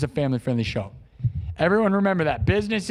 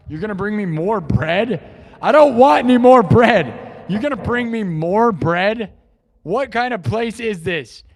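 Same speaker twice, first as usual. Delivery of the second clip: loud indignant rant, higher; mock outrage; 4 semitones higher, 3 dB louder than usual. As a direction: complain like a fed-up diner.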